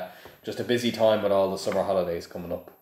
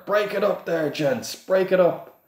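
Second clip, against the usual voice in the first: high, loud command, slowing down; louder; 10 semitones higher, 3 dB louder than usual. A narrator's reading. Assistants order the brawling men apart, louder. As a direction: bellow at them to break it up. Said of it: "and then louder".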